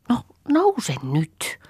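slow whispered urging, rising at the end. Acted. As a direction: coax her up in a drawn-out whisper. Urging sister up again. (hidas, loppua kohti nouseva kuiskaus)

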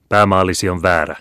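crushing exclamation. A narrator's reading. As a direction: flatten him with the verdict. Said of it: "huudahti jesuitta musertavalla äänellä". (musertava huudahdus)

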